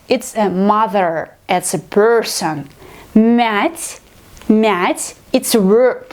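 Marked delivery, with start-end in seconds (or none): 3.1-5.1 "Мять" with a soft palatal мь; soft consonant. Shown as a demonstration. Teacher explaining the verb, soft мять. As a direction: say "мять" twice with a softened м. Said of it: "pronounce it like soft consonant".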